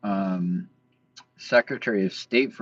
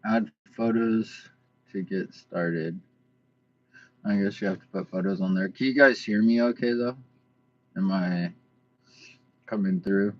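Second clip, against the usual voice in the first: speaking with a barely opened mouth; stiff jaw. Real, not acted. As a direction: talk through a stiff, tight jaw. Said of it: "so I still talk weird".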